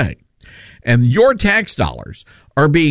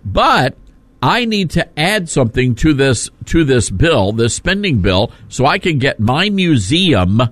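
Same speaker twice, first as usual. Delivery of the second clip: folksy pandering politician. Retold or imitated. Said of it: "you say".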